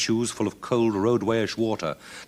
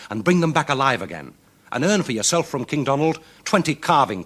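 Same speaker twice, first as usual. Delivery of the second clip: higher, louder heroic voice giving orders; commanding champion; 5 semitones higher, 4 dB louder than usual. Acted. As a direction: tell the lad what to do, brisk and bold. Champion instructs the tracking lad.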